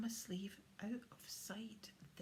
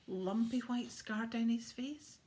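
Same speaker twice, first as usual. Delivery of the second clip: louder, slow pointed question; pressing question; 3 semitones higher, 8 dB louder than usual. Acted. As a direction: quiz him slowly. Santa questioning William about hunter.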